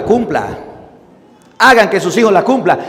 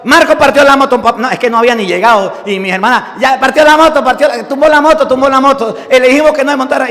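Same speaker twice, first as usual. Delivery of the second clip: tattling sisters; 5 semitones higher than usual. Retold or imitated. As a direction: blame the brother eagerly like little girls. Hermanas acusan al padre. (hermanas acusando, voz más aguda y fuerte)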